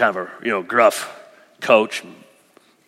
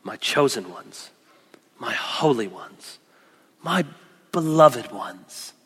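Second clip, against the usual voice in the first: gentle God; 5 semitones lower, 5 dB quieter than usual. Retold or imitated. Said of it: "gentle kind of pulling us in".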